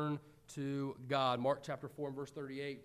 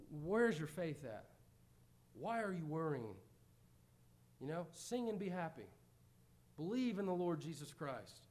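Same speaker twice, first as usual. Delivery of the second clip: gentle questioning; 3 dB quieter than usual. Acted. Voicing Christ's message softly.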